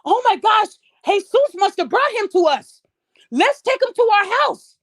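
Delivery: high, excited mock gush of a grateful mother; sarcastic impression of a gushing mother; mocking gushing woman. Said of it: "Do you really think she said".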